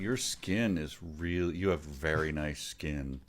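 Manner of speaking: mock flattery. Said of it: "I wanna say".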